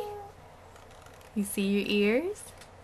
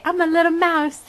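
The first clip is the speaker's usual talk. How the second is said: put-on lilting, a bit higher, for a toddler to copy; sing-song prompt; 5 semitones higher, 4 dB louder than usual. Shown as a demonstration. Mom prompting toddler to say it, sing-song. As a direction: sing it out so the child repeats.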